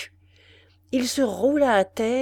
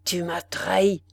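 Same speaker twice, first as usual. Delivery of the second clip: chest voice. Acted. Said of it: "d'une voix qui sortait de sa poitrine".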